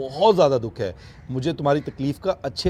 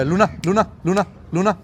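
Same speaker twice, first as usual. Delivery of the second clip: raised, higher voice calling the lioness's name; sing-song call to Luna; 5 semitones higher, 3 dB louder than usual. Real, not acted. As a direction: call her name across the cage.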